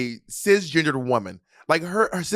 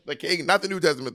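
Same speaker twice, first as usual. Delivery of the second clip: laughing while talking. Real, not acted. Laughing over Bible joke.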